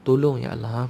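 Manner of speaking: mild, repeated imploring prayer; understated pleading, pausing between calls; intimate plea. Acted. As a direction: call on God as if He is near. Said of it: "kita menyebut begitu rapat dengan Allah".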